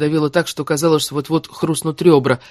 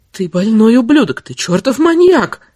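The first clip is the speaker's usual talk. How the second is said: higher, louder angry outburst, stretched at the end; furious cursing; 8 semitones higher, 5 dB louder, slower than usual. Acted. Woman cursing her lover as she dresses, furious. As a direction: curse at them, building in pitch.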